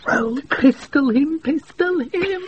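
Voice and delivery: outraged outburst. Acted. Outraged at Malvolio.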